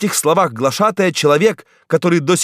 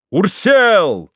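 higher, louder called name; crowd shout; 6 semitones higher, 4 dB louder than usual. A narrator's reading. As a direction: call the name over the crowd. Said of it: "постепенно усилившийся до крика".

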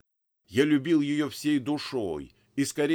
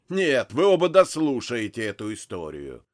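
angry; 6 dB louder than usual. Acted. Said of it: "злобно произнёс он".

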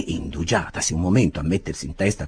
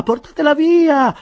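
slow, much higher and louder desperate cry; slower frantic shout; 9 dB louder than usual. A narrator's reading. Winkle repeating his plea to the bearers, slower desperate yell. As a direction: drag out the panicked plea. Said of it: "gridava mister Winkle".

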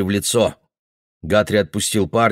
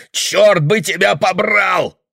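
much higher, loud, slow curse; furious shout; 10 semitones higher, 4 dB louder, slower than usual. Acted. Guthrie cursing the boy, furious shout. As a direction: bellow the curse.

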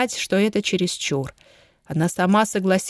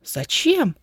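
higher, puzzled question; a light surprised ask; 7 semitones higher than usual. A narrator's reading. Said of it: "удивлённо спросила Фредди". (удивлённо, высоким голосом)

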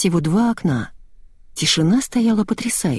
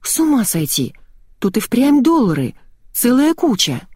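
amazed; 7 semitones higher than usual. A narrator's reading. Girl amazed at the money.

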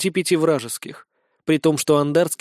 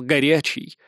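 usual speaking voice

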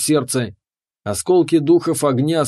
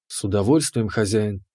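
lower, softer bowing servant voice; obedient keeper; 5 semitones lower, 4 dB quieter than usual. Acted. The keeper bows to her master, low and soft. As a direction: answer like a devoted servant.

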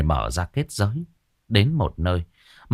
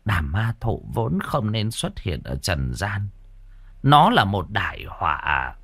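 weary sigh; slower than usual. Acted. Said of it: "Ngài Bà thở dài".

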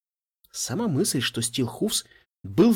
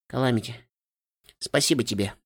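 smiling; 3 semitones lower, 4 dB quieter than usual. A narrator's reading. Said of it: "улыбаясь, как только могла".

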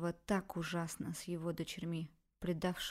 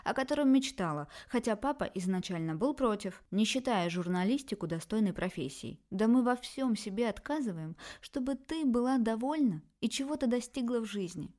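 louder, pleading mother; hurt mother; 3 dB louder than usual. Acted. Mother reminds her daughter of their sacrifices, hurt. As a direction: list what they gave up, wounded.

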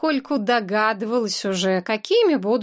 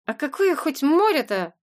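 ordinary delivery

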